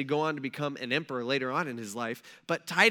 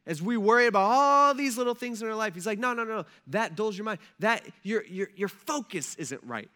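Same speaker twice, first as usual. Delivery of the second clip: higher, louder "No, no, no, no"; emphatic dismissal; 6 semitones higher, 5 dB louder than usual. Retold or imitated. Jesus brushing off the congregation's worries, emphatic and loud. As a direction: wave the worries off firmly.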